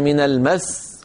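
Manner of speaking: من المس with a small push on المس before stopping; slight stress. Shown as a demonstration. Teacher shows how the Arabs stopped on المس, slight stress. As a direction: press lightly into the final seen of المس. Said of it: "هكذا بضغطة بسيطة".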